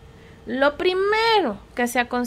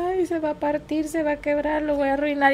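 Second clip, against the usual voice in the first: worried parent; 3 semitones higher than usual. Retold or imitated. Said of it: "el primero uno decía".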